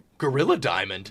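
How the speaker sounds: animated dog voice. Reading out a mix name during a game, saying it like Scooby-Doo. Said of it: "I said that like Scooby-Doo".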